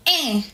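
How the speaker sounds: "Eh" through the nose; nasal French-style "Eh", no n at the end; nasal vowel. Shown as a demonstration. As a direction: let "Eh" resonate in the nose. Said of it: "It's more of a nasal sound".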